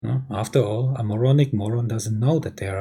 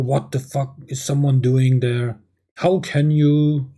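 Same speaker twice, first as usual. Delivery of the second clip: angry complaint; 3 dB louder than usual. Acted. Deranged wife catches her husband at the TV, angry complaint. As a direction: complain in acted outrage, stretching the words. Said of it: "complaining and bursting out in anger".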